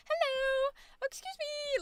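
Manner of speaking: high, calling through a window; through glass partition. Retold or imitated. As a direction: call politely through the glass. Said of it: "talking through the window".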